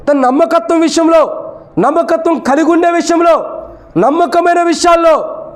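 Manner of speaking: high-pitched, insistent sermon delivery; preaching. Real, not acted.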